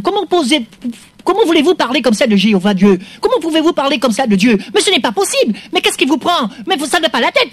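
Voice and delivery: indignant. Acted. Sketch, indignation montante.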